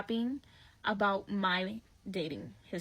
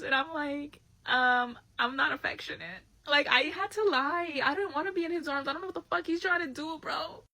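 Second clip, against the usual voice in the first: higher, laughter still in voice; giggly; 5 semitones higher than usual. Real, not acted. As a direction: talk through leftover giggles.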